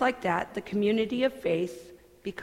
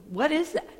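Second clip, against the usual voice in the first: put-on curious child; 6 semitones higher than usual. Child asking about church.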